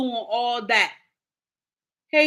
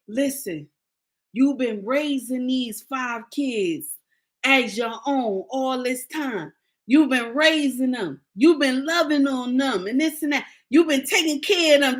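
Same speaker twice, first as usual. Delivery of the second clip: sweet Maury. Retold or imitated. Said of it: "Maury's so sweet".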